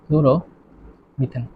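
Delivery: ডাইক্লোরোমিথেন broken into slow, separate parts; slow dictation. Shown as a demonstration. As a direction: say ডাইক্লোরোমিথেন very slowly with long gaps, softly. Teacher repeats name slowly while writing. (লেখার তালে ভেঙে ভেঙে খুব ধীরে)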